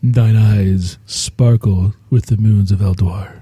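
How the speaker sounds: mock-courtly old English romance; renaissance fair olde speech. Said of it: "talk in old English".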